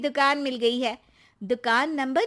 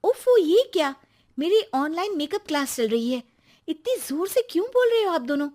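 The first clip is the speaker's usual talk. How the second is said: higher, fast irritated complaint; annoyed wife; 4 semitones higher, faster than usual. Acted. Wife interrupted in her makeup class complains, irritated and quick. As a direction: snap at them to keep it down, higher and quicker.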